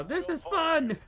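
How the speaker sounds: high, wild unhinged cheer; lunatic voice. Retold or imitated. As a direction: squeal it like a gleeful maniac. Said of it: "I got the lunatic voice".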